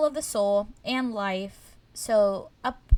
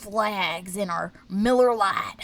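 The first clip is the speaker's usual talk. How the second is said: mock redneck pride. Mocking stereotypical American pride.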